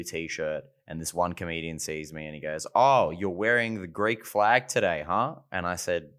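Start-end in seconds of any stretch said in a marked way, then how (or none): 2.7-5.4 drawn-out, slow needling question; mock teasing. Comedian needles colleague about his t-shirt, mock teasing. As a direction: stretch it out, imitating a knowing tease.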